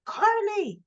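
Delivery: loud, high shout of a name; imitating an exasperated yell; calling out. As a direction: call sharply to get her attention. Man calls out to yelling woman.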